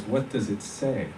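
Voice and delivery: slow, looming demand; menacing, slow. Retold or imitated. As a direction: press him, slow and cold. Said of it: "He leans down at me like I'm a dog".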